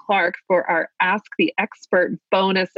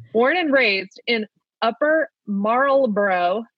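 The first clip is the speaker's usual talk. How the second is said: careful Maryland accent; 2 semitones higher, slower than usual. Shown as a demonstration. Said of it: "Let me give it my best shot".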